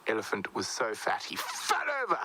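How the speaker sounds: plain reading voice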